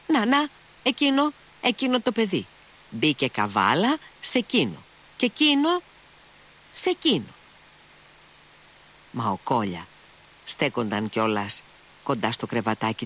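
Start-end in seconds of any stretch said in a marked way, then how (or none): 0.1-7.3 put-on high, fretful old woman pointing out the boys; a sick mother complaining, voice pitched higher; querulous sick mother. A narrator's reading. Sick mother points out the boys to her son, high and fretful.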